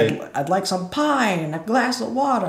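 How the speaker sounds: high, loud imitation, slowing on the last words; deaf man shouting. Voicing deaf character.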